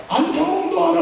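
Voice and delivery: knowing retort. Shown as a demonstration. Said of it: "그럼 더 이상 말".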